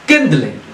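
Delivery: Kindling with the weight on KIND; first syllable stressed. Shown as a demonstration. Teacher showing students where Kindling takes its stress. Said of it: "we also stressed on the first".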